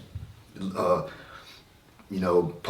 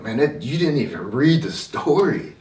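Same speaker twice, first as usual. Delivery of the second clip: put-on higher, louder indignant child protest; retold angry kid; 6 semitones higher, 5 dB louder than usual. Boy protesting to his teacher, mock angry. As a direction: voice the hurt kid's anger, partly mock. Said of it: "angry because I was like".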